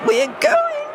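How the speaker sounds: put-on very high excited little girl; gleeful squeal. A narrator's reading. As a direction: squeal it with glee. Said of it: "she squealed".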